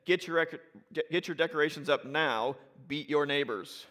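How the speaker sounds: reading the sign out punchily. Retold or imitated. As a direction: call it out like a shop ad. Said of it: "and the sign said".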